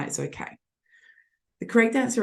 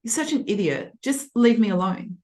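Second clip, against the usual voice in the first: cold and insulting; 5 semitones higher than usual. Shown as a demonstration. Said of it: "Or, um".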